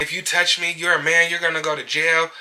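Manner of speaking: high-pitched mock warning; put-on high voice, mock indignant threat; mimicked threat. Acting out client's threat.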